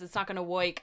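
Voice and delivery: "It's not gonna work" with a New Jersey "woik"; New Jersey accent. Retold or imitated. Imitating the Penguin's ridiculous New Jersey accent. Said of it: "his accent is so funny".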